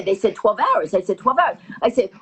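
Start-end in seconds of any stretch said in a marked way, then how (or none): 1.2-1.6 higher, mildly incredulous repeat; disbelieving echo. Retold or imitated. Passenger hearing how long the dive lasts, mild disbelief. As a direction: echo it back in mock disbelief. She echoes the answer in disbelief.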